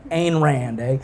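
slow "Ain Rand, eh" in mock Texan; lightly put-on Texas way of saying Ayn; joking Texas accent. Shown as a demonstration. Preacher fumbling the author's name, mock Texas accent. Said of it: "I just said A in a Texas accent".

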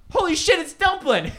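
shrieking with delight while laughing; excited. Retold or imitated. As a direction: burst out laughing as you spot her. Excited recognition on screen.

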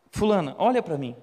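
firmer call. Acted. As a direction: raise the voice and demand her attention.

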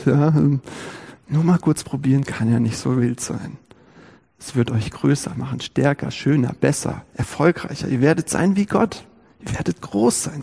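leise, verführerisch zischelnde Schlange; flüstere listig wie die Schlange; zischelnde listige Schlange. Acted. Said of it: "zischelnd, listig". (leise lockende Schlangenstimme)

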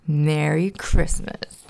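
mock-sweet Oscar; sly grouch. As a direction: drawl it with spite.

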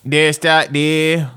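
high, strained drawn-out Southern call; Joe impression. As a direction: stretch each word up high like Joe. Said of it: "that's how Joe sounds".

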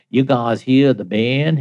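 slow Southern drawl, lightly hammed up; Southern accent. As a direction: imitate a slow-talking Southern man. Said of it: "from the South".

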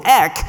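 slow, clear ek, short eh-k; Greek syllable. Shown as a demonstration. Teaching the congregation the first syllable, deliberate. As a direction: lay down ek slowly and distinctly. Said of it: "the first syllable".

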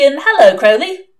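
a hellish caller cutting into the music; demon on the radio. Acted.

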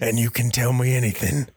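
put-on British-accented American. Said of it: "Not even trying with an American accent".

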